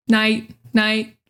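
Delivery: "Night" ending on a held, unreleased t; stop T. Shown as a demonstration. Repeating for learners, stop T. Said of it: "Stop T".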